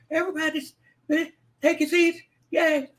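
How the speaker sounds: high, bright hype-man call; excited announcer. Acted. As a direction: announce it like a game show host. Calls drum roll, cheers crowd.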